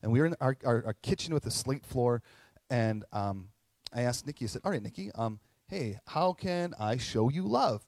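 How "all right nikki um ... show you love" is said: robotic ask. Retold or imitated. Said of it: "Probably sound like a robot".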